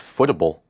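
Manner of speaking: FOOTABLE as one word, starting like "foot"; mistaken pronunciation. Shown as a demonstration. Co-host asks about the plugin's name, saying footable as one word. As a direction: run "footable" together as foot-a-bull. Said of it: "I thought it was pronounced".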